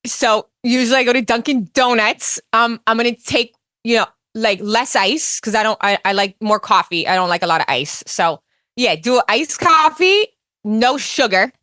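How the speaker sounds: lightly voiced Jersey accent; a hint of Teresa's Jersey chatter; Teresa Giudice impression. Ordering coffee as Teresa, light Jersey accent. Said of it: "Teresa Giudice ordering a cup of coffee".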